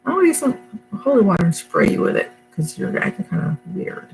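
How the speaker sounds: high, playful mock-serious jab; a lightly voiced joking threat; teasing catchphrase. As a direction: tease someone for acting strange. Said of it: "That's the thing I picked up saying".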